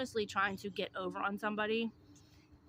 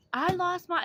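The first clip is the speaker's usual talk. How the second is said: high, louder imitated plea; high pleading start; 10 semitones higher, 6 dB louder than usual. Imitating the beggar starting her story again, high loud plea. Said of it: "she was like".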